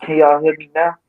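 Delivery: far from the mic; off-mic, faint and distant. Real, not acted. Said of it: "'cause you sound far".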